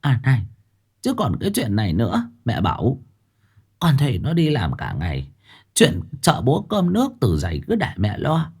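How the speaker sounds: mother sweetly asking her son for his salary; smiling mother. Acted. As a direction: smile and slip in the request. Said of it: "Bà Tháo mỉm cười".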